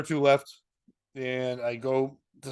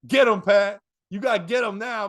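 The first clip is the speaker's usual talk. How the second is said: raised, higher-pitched mock heckle; retold crowd yell; 4 semitones higher, 5 dB louder than usual. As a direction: imitate a crowd egging someone on. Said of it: "eight people yell out".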